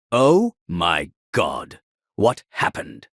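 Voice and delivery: loud, slow, stunned outburst; shocked gasp. Acted. Narrator hears of the dead baby, shocked loud gasp.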